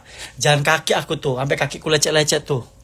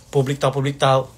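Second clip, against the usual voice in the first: ordinary talk, nothing marked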